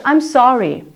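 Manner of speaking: slow I was confused around I'm sorry; apologetic model sentence. Shown as a demonstration. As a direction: apologise gently and slowly. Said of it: "해볼까요?".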